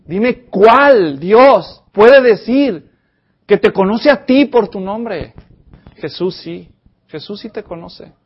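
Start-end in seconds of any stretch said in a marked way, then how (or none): 0.0-5.3 very slow loud challenge. Real, not acted. Preacher's rhetorical challenge.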